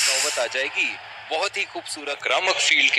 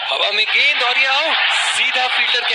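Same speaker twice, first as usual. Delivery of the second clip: loud, raised wicket call; excited; 5 semitones higher, 3 dB louder than usual. Real, not acted. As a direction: shout out the dismissal.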